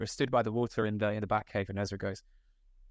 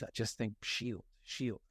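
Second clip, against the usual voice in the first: muttered shield; 7 dB quieter, slower than usual. Retold or imitated. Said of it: "he was like".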